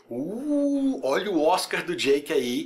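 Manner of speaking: high, drawn-out "uh" of fake amazement; sarcastic impressed-viewer voice; mock awe. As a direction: pretend to be wowed, starting on a long high coo. Imita espectador deslumbrado com atuação.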